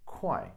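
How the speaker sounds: 快 said "kwai", with a k at the start; alternate pronunciation. Shown as a demonstration. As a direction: pronounce 快 as "kwai". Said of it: "can also be pronounced as".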